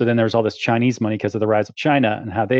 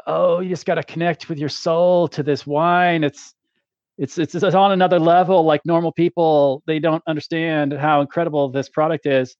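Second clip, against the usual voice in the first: gushing chateau owner; 3 semitones higher than usual. Retold or imitated. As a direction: sell the wine's magic with awe. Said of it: "each one starts talking about".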